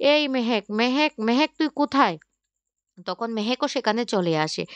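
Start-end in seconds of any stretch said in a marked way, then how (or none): 0.1-2.2 mildly raised, higher-pitched call. A narrator's reading. Father summoning Mehek to come, calling out. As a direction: call out for someone elsewhere in the house.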